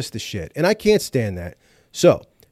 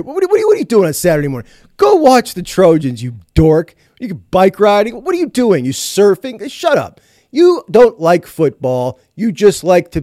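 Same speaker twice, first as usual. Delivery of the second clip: higher-pitched, hammed-up rant at absent fans; mock exasperated scolding; 4 semitones higher, 3 dB louder than usual. Sports host scolding fair-weather USC fans, mock exasperated. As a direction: badger them with incredulous questions, then dismiss them.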